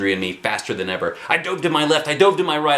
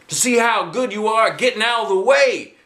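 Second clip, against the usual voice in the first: high, louder coach shout; 11 semitones higher, 4 dB louder than usual. A narrator's reading. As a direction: yell over the noise. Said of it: "shouted Mister Jack".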